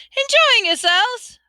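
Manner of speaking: high, loud, drawn-out greeting; jovial host. A narrator's reading. Ghost host checking on his guests, jovial.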